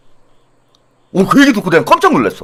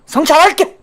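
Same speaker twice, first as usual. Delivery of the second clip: mock sneer; 7 semitones higher than usual. Repeated with rising sneer.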